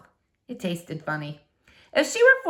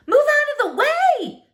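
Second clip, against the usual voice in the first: much higher, louder, slow command; commanding girl; 5 dB louder than usual. Acted. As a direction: order her aside, urgent. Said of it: "said Flora".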